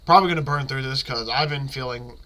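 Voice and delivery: stuffy blocked nose, sick. Real, not acted. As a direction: talk through a stuffed-up nose. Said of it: "can't breathe out of my nose".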